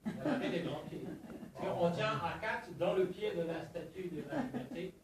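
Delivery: put-on French spoken with a light English accent. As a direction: tour guide with an English accent. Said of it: "Je prends tout de suite un accent anglais".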